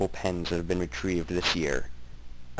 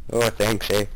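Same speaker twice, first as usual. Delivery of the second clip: hammed-up Canadian accent, louder; a Canadian thanking for the praise, accent on eh; 2 semitones higher, 4 dB louder than usual. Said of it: "excellent Canadian accent".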